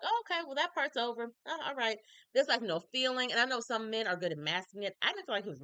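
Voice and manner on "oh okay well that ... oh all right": lightly mocked shrug of a voice, higher; nonchalant Wade. Mimicking Wade hearing the news, mock nonchalant. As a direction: imitate him not caring at all. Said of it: "He was very nonchalant".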